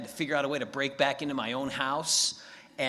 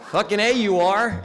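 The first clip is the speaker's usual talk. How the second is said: laughing; 5 semitones higher, 11 dB louder than usual. Acted. Impressed friend laughs.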